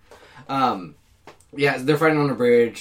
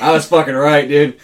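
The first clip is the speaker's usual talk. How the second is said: gloating; 9 dB louder than usual. Real, not acted. Gloating after the laugh.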